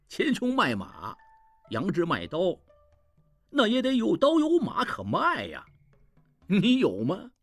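mocking laugh. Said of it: "一名老乞丐笑他".

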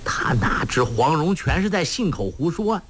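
ordinary delivery, nothing marked

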